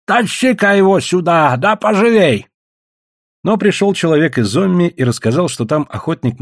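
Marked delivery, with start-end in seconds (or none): 0.1-2.5 raised, bossy order; unceremonious. A narrator's reading. Guest ordering the trader to fetch meat, unceremonious. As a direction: order him about without ceremony. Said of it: "бесцеремонно сказал он Чензе".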